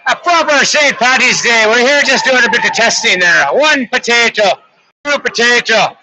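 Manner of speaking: light put-on Irish accent for the play-by-play. Hockey commentator doing the call in a light mock Irish accent. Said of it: "asked to do it with a bit of an accent today, so we're gonna give it a shot in Irish".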